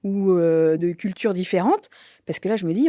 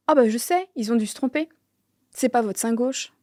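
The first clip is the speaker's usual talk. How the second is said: doctor's sudden realization; 5 semitones higher than usual. Retold or imitated. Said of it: "il fait".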